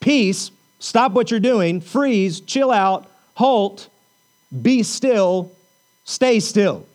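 emphatic string of firm orders; authoritative commands. Retold or imitated. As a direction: imitate a commander halting the storm, each order set apart. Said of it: "with a loud, authoritative voice".

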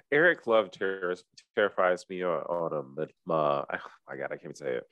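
stuffy nose, struggling with words; blocked nose. Real, not acted. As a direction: talk through a stuffed-up nose. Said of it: "I'm so stuffy".

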